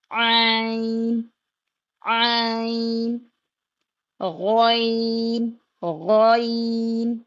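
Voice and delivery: each letter held very slowly; slow, held letter drill; drawn-out letters. Shown as a demonstration. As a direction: stretch every letter name long. Slow elongated letter recitation.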